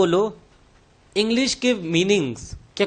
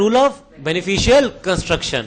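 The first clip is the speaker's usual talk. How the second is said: stretched out word by word, very slow; slow drilled term; much slower than usual. Shown as a demonstration. Teacher slowly drills the rule name for class, very slow. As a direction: spell out the key term slowly for students.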